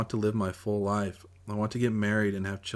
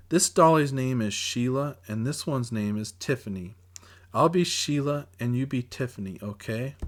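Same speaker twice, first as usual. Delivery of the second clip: put-on little girl; 4 semitones higher than usual. Little sister voiced, high.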